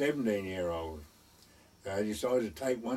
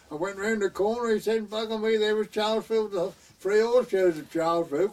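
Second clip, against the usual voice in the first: excited retelling; 10 semitones higher, 7 dB louder than usual. Retold or imitated. Jim retells finding the village.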